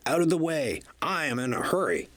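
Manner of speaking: quick, impatient brush-off; rushing past, no time to stop; busy engine hurries past Thomas; hurried shout. A narrator's reading. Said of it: "Henry whistled".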